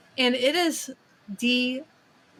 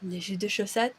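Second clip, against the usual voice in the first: softer, lower le jus de chaussette in French; French phrase; 3 semitones lower, 6 dB quieter than usual. Shown as a demonstration. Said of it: "my favorite of the French phrases".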